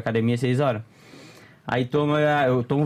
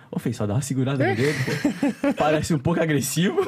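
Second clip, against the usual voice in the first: imitating Lúcio. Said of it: "tu imita ele igualzinho".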